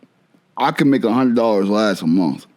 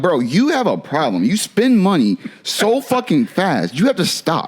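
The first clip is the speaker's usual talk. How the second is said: mock scolding, higher on the later phrases; stern self-talk; 5 semitones higher, slower than usual. Man retells lecturing himself about spending money, stern self-talk. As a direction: give yourself a drawn-out, exasperated telling-off. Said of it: "I tell myself".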